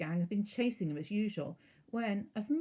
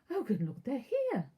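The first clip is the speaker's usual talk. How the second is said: higher, louder flustered cry; frantic; 6 semitones higher, 4 dB louder than usual. A narrator's reading. Aunt flustered at the guests' arrival, frantic and higher. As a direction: panic as the doorbell rings. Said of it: "said Aunt Petunia frantically".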